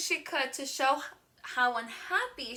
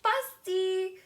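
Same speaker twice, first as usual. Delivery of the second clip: patient dad; 6 semitones higher, much slower than usual. Acted. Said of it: "said her daddy".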